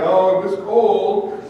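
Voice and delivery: slow droopy whine; mopey Eeyore. Acted. Friend as Eeyore moaning about the cold. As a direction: sigh it out gloomily. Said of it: "He was Eeyore".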